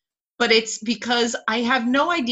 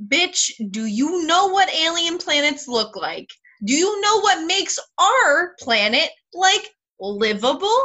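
higher, exasperated questioning; incredulous rant; 5 semitones higher than usual. Real, not acted. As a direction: rant in disbelief. Mock rant about alien planets.

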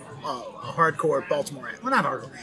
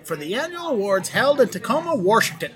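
higher Baltimore read, "Washington" as "Warshington"; Baltimore accent; 6 semitones higher than usual. Retold or imitated. Host replaying his voiceover slip, Baltimore accent. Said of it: "I had to work to lose my Baltimore accent".

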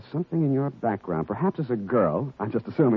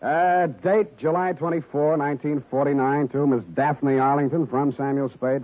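dry noir voiceover; deadpan detective report; hard-boiled narration. Acted.

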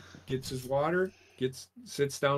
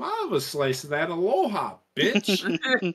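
sassy pizza grabber; 4 semitones higher than usual. Retold or imitated. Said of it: "one of those people that would walk up".

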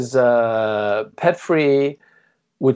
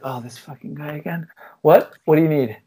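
exasperated mom; 3 semitones higher than usual. Retold or imitated. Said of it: "they'd be like".

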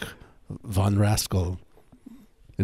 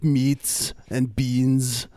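mock inventor voice; 4 semitones higher, slower than usual.

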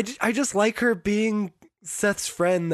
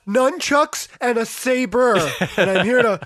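loud, hammed-up threat; mock aggressive; 4 semitones higher, 5 dB louder than usual. Marissa confronting Teresa, hammed-up aggression. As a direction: push it out louder, playfully menacing. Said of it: "she sounds kind of aggressive".

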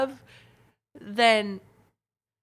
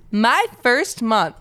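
loud, slow words through headphones; yelling; 5 dB louder, much slower than usual. Real, not acted. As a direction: yell it like you can't hear yourself. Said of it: "Why are you yelling?".

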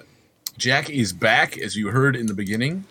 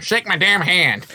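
slow, high wrestler demand; Brock Lesnar impression; 8 semitones higher, 3 dB louder than usual. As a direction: growl it like a tough wrestler. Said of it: "So we do the Brock Lesnar".

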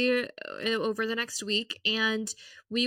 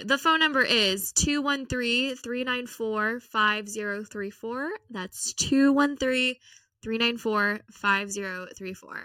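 slow, careful ad read; radio ad voice; slower than usual. Shown as a demonstration. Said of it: "I feel like I'm a little, like, an ad".

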